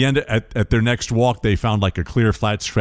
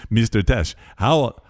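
put-on Swedish accent; slower than usual. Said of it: "it's a terrible Swedish accent".

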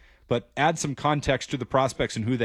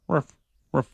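small mild ruffs, hardly raised; soft little bark; 5 semitones higher, 3 dB louder than usual. Shown as a demonstration. Host shows a mild bark for the injured forearm. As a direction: bark lightly, not much of a bark. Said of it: "kind of like a ruff".

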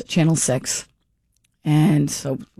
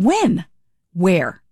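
firing back in confusion; retold reply to the registry clerk, baffled. Told of unpaid ticket.

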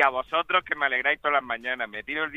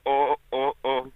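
stiff robot voice singing na na; toy robot; slower than usual. Pretend. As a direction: sing it like an old nineties robot. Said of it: "Voz de robot".

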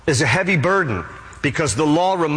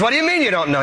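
higher-pitched, lightly acted disbelief; mock incredulity; 8 semitones higher, much faster than usual. Angel questions thief at heaven's entrance, mock incredulous. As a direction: question it as a baffled official.

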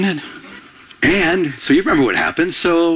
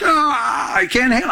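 higher, hammed-up cry of the devil in agony; the devil squirming at the worship, played for drama; dramatic devil; 6 semitones higher, slower than usual. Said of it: "I'm getting a little dramatic up here".

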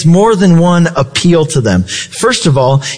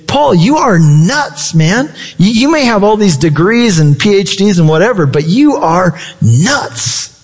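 mock exasperation; 3 semitones higher than usual. Roman governor telling Paul off, mock incredulous. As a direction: imitate someone incredulous, stretching the key words. Acting out Festus's outburst at Paul.

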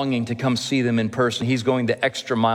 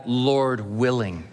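slow reverent phrase; slower than usual. Shown as a demonstration. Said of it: "and then we add".

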